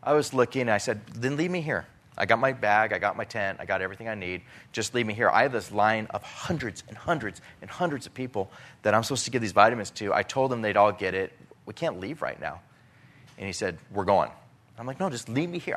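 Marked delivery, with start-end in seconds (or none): 1.1-15.0 raised, insistent plea to be left behind; begging the pastor to stay, pushing back hard; pleading protest. Retold or imitated. Arguing with the pastor on the plane, pleading protest. 15.0-15.7 pitched way up, pleading; arguing plea. Retold or imitated. Refusing to board the plane, high pleading protest. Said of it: "I'm arguing".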